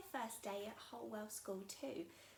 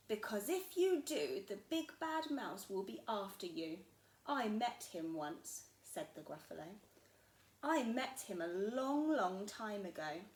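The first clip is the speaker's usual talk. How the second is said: louder, lightly voiced warning father monster; a big creature spooking his child; big Gruffalo dad; 5 dB louder than usual.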